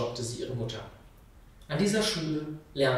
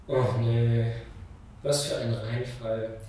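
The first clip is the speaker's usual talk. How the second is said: enttäuschtes Meckern; 3 semitones lower, slower than usual. Acted. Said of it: "Nun meckre nicht, wie eine Ziege".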